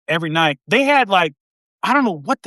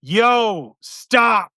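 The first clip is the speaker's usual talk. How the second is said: drawn-out, higher sergeant call; sergeant impression; 3 semitones higher, much slower than usual. Sergeant correcting infantry trainees, long drawn-out mock rebuke. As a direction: stretch out each word in mock reprimand. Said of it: "all he would do is go".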